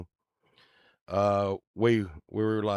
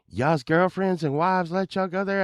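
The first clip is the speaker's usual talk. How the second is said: high, loud, incredulous neighbor; pitched-up amazement of a henpecked husband; old neighbor's voice; 12 semitones higher, 6 dB louder than usual. Retold or imitated. Neighbor questioning the band about wives, high incredulous voice. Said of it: "he talked like this".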